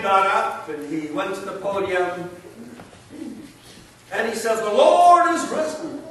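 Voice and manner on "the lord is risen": loud and high, ringing out to the hall; bold proclamation. Retold or imitated. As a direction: proclaim it boldly to the whole assembly. Man proclaims at the podium.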